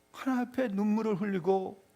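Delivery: ordinary delivery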